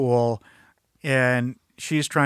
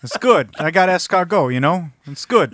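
mock cafe banter; 3 semitones higher, 7 dB louder than usual. Playing Frank answering about his cafe.

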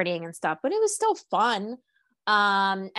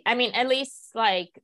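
usual speaking voice

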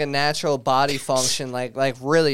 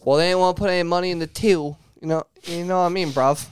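put-on British accent; faster than usual. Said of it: "I can't really do a British accent".

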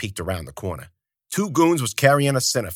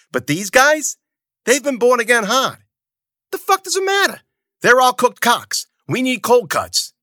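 loud, much higher raging yell; furious shout; 14 semitones higher, 5 dB louder than usual. Acted. Zoot raging at Bruno over the sinners, high furious shout. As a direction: scream it in his face.

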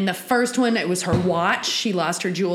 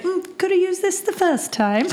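wry reaction; 11 semitones higher than usual. Retold or imitated. Acting her reaction to history book.

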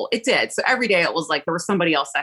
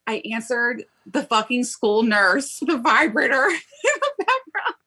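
laughing exasperation; 5 semitones higher, slower than usual. Retold or imitated. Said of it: "I'm like".

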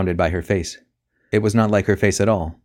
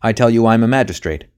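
loud, raised demand; bellowing; 4 semitones higher, 6 dB louder than usual. A narrator's reading. Magistrate to the servant inside, loud bellow. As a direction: bellow the order at the door. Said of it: "bellowed the magistrate".

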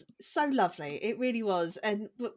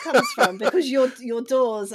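laughing; 4 semitones higher, 7 dB louder, slower than usual. Real, not acted. Laughing while explaining.

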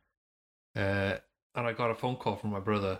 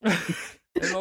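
put-on posh English accent; 8 semitones higher, 5 dB louder than usual. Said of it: "Robert Pattinson".

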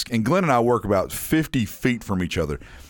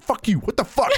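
mock angry; 9 semitones higher than usual. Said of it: "She's like".

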